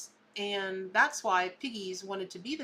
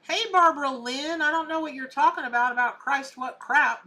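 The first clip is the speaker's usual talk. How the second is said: angry; 5 semitones higher, 8 dB louder than usual. Real, not acted. Scolding a commenter on her channel.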